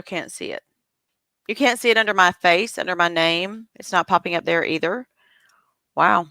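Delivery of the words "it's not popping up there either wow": hushed whisper to herself. Real, not acted. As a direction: whisper it under your breath. Host whispering at the glitch.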